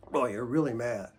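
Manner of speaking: calm acknowledging echo; name their anger gently. Shown as a demonstration. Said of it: "keep echoing back".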